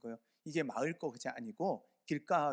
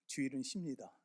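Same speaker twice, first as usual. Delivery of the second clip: ironic. Real, not acted. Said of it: "repeating the sign ironically".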